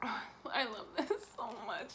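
soft adoring whisper. Real, not acted. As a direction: breathe it softly. Whispering over the ornament.

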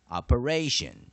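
Operation said slowly with ray and a sh sound; slow it down for learners. Shown as a demonstration. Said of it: "Digraph T I as sh".

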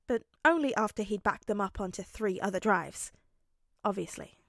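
measured audiobook narration; story narration. A narrator's reading. Narrator telling how Bakugo backs off, measured. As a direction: read the action evenly to the listener.

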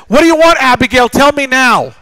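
loud, pressing dad voice; impatient father pressing his daughter; stern demand. Retold or imitated. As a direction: demand an answer, firm and loud.

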